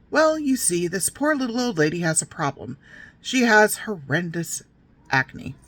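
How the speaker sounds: mother telling a creepy tale. Retold or imitated. Mother teasing her little girls with a gross tale, mock storyteller voice. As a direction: relish the build-up like a mock storyteller.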